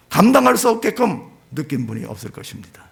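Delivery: ordinary talk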